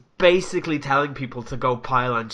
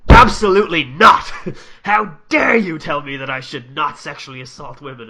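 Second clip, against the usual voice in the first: loud, higher, indignant yelling; shouting in mock outrage through a laugh; mock outraged shout; 4 semitones higher, 13 dB louder than usual. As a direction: ham up a blustering man's fury. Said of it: "And Piers Morgan was like".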